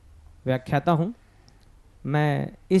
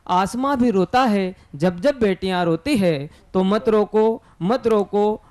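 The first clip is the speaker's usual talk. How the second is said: measured, lilting verse with rising phrase ends; poetry recitation; 3 semitones higher than usual. Acted. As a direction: recite in short, swinging phrases. Recites couplets about daughters. (भावपूर्ण कविता पाठ)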